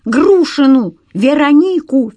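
high, loud yelling; shouting the name. A narrator's reading. The caller yelling the victim's name at the detective, shouting.

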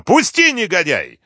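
very high cry, falling at the end. A narrator's reading. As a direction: cry out against an attacker. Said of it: "крикнула она".

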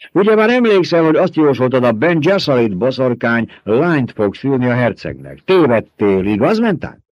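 high, loud sly baron voice, taunting his mentat; gloating Baron. A narrator's reading. The Baron needling his mentat about a wrong prediction, high and mocking. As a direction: purr it out like a fat, smug tyrant.

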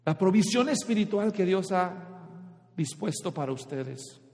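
very slow, drawn-out Deseen intensamente; slow each word down to stress the yearning; slow emphatic reading. Shown as a demonstration. Preacher reading the original verb slowly, drawn out. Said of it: "el verbo original dice".

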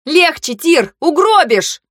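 high, urgent warning cry; alarmed shout. A narrator's reading. Heroine warning Тир he will kill the sick passenger, alarmed shout. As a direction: shout for him to ease off.

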